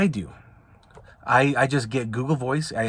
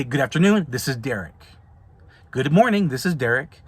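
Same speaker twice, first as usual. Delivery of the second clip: friendly professional phone greeting. Shown as a demonstration. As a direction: answer crisply and politely. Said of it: "That's how I answer my phone".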